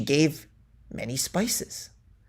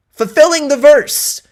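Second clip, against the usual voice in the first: dramatic flourish; 10 semitones higher, 5 dB louder than usual. Acted. Mock-solemn verse parody reading.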